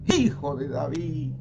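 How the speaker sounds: slow, stretched call; drawn-out cry with little added volume; shouting even harder. Acted. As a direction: call out from afar, drawing out the name. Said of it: "Más fuerte aún gritaban".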